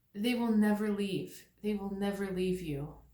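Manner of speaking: tearful, teary, deeply moved emotional voice. Speaker addressing listeners, pausing to admit tearing up: teary. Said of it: "I'm getting really teary here".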